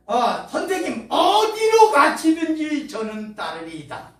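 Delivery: an eager follower vowing loyalty; eager pledge. Retold or imitated. Scribe pledging to follow Jesus, eager and loud.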